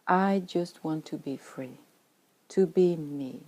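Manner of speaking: ordinary delivery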